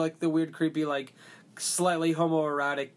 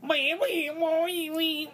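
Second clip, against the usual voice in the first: squeaky high wee wee; high squeaky noises; 11 semitones higher, much slower than usual. Retold or imitated. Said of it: "made those noises and stuff".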